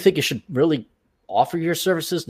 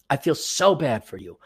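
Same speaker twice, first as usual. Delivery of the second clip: sincere, softer; 5 semitones lower, 5 dB quieter than usual. Real, not acted. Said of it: "I feel so bad for you guys".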